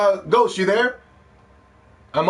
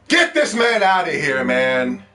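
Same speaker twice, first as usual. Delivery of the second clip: indignant outburst; 3 semitones higher, 5 dB louder, much slower than usual. Real, not acted. Reacting to chat claim.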